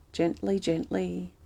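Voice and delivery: soft, slow murmured reassurance; gently soothing. Real, not acted. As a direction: hush it out slowly, like calming someone. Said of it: "I just go gently".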